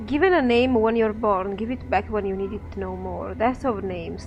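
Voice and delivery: lilting, chanting gravekeeper; lightly voiced singsong undertaker; eerie dustman voice.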